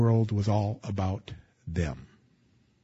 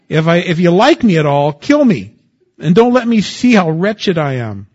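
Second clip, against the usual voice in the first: loud, high, desperate plea to God; preaching Moses' lament with full force; Moses pleading; 5 semitones higher, 9 dB louder than usual. Acted. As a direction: cry out like a man at the end of his rope. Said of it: "So Moses said to the Lord".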